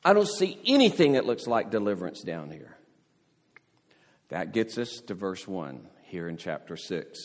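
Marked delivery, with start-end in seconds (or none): 0.1-2.8 desperate complaint. Retold or imitated. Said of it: "he's saying to Yahweh".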